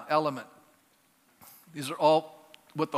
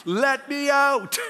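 slow, drawn-out cry to be let out; God pleading; 5 semitones higher, 4 dB louder, much slower than usual. Acted. God inside the believer asking to be released, slow and pleading. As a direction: stretch each word like you're begging to be freed. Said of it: "And God says".

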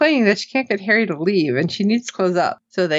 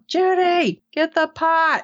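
mild mock yell; 10 semitones higher, slower than usual. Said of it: "And she yelled".

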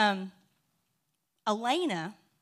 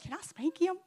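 higher, bouncy repeat of the line with a rising end; playful higher voice; mock child quote; 8 semitones higher than usual. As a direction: chirp it back like a delighted kid. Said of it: "I've been quoting that for weeks".

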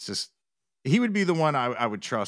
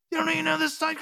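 much higher, mock disbelief at the friend; incredulous friend; 3 dB louder, faster than usual. Friend scoffing that he missed the fan site, incredulous. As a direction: play the friend, amazed you're out of the loop.

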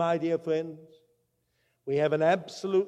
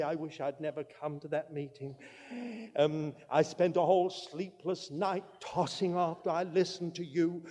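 mock neurotic complaint; 6 dB quieter than usual. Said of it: "Christians get all upset and neurotic and say".

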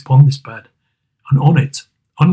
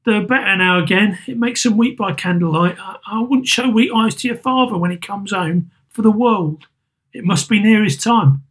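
higher, tired voice of a grieving mother; weary mother; 7 semitones higher than usual. Acted. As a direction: hide the tears behind small talk. Mother covering her grief.

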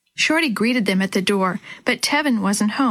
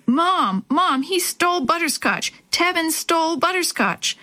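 high, tearful accusing cry; girl in tears calling for her mom; 8 semitones higher than usual. A narrator's reading. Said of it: "tears spilling down her cheeks".

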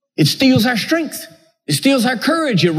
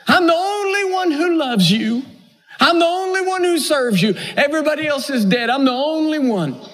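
whining, rising higher on each line; self-pitying whine; 4 semitones higher than usual. Acted. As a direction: sulk like the only faithful one. Elijah complains to God.

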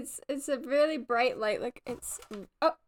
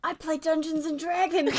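overacted anime dub; 4 semitones higher than usual. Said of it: "behind the head reach and the pointer".

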